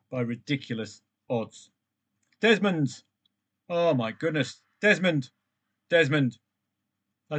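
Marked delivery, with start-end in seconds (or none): 2.4-4.6 exasperated cry. Real, not acted. Draw result lands on screen. 4.8-6.4 exasperated repeat. Real, not acted. More draws coming in.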